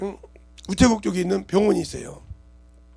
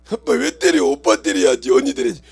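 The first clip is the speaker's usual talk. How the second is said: put-on protesting child; 5 semitones lower, 6 dB louder than usual. Child protests being spanked.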